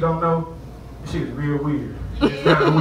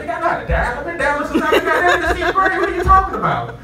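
higher, mock-offended voice; snooty phone owner; 11 semitones higher than usual. Phone owner refusing to lend his phone, higher mock-offended. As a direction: play the phone owner who's insulted.

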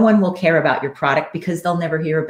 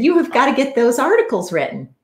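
impassioned urging; 7 semitones higher than usual. Retold or imitated. Coach urging client to write.

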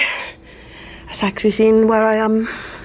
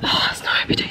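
whispering; faster than usual. Real, not acted. Unvoiced wry aside.

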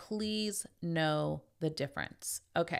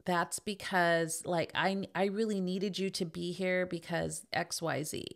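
guilt-tripping mom; slower than usual. Retold or imitated. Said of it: "makes you feel guilty to manipulate you".

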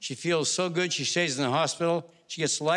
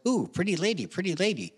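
a light, higher parrot voice; 4 semitones higher than usual. Acted. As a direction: lightly play the parrot cooing at the lady. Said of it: "The parrot goes".

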